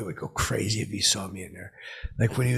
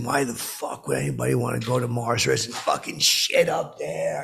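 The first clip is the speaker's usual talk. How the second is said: retold anger; 3 semitones higher than usual. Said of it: "I got, like, angry".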